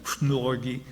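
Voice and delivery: fnorgy said as FNOR-gy, stress on the first syllable; Russian word. Shown as a demonstration. Teaching the listener a Russian word, fnorgy stressed on FNOR. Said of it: "That's how you say it in Russian".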